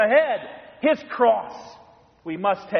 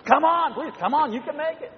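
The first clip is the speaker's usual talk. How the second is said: higher, coaxing encouragement to a lagging husband; coaxing wife; 9 semitones higher than usual. Retold or imitated. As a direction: cheer him on like a patient wife. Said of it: "Reaches out her hand".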